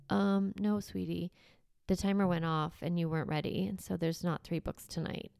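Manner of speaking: put-on soft, kind refusal to the child; a parent calmly telling a child no bedtime stories; calm gentle no. Shown as a demonstration. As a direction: let her down gently, no anger. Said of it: "it doesn't have to be so yelly and angry".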